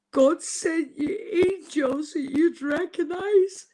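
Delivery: tearful, fighting back sobs; crying. Real, not acted. Telling viewers about the coma, crying. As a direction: voice breaking into tears while quoting a friend. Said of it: "I'm crying my heart out".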